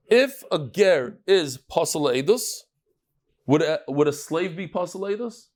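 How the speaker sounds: slow, deliberate reasoning aloud. Shown as a demonstration. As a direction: lay out the premise slowly, word by word. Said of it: "think about it out loud".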